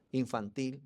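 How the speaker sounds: ordinary talk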